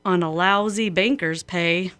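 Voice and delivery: measured, rhythmic recitation of a cowboy poem; lightly performed cowboy verse; poem reading. A narrator's reading. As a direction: read it like a folksy poem on the radio. Reads a cowboy poem aloud.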